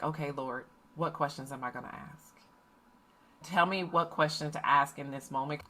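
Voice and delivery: mother quietly praying for the right question; hushed prayer. Retold or imitated. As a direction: pray it under your breath. Silent prayer before daughters arrive.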